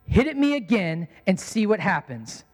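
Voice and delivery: controlled stern warning with a pause after the name; mildly stern dad keeping his cool. Retold or imitated. Dad to his son after biting his tongue, stern. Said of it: "in a very stern voice".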